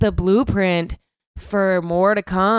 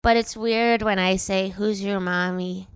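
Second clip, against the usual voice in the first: drunk girl impression. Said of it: "That's also a great impression".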